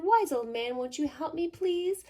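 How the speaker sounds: put-on high, loud pleading old woman; high pleading old lady voice. A narrator's reading. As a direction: beg the wise man for help. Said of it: "And she said".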